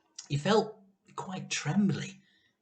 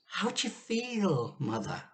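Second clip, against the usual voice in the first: anxious question; 3 semitones higher, 5 dB quieter than usual. Acted. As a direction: ask her gently, worried. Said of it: "asked Missus Cranky anxiously".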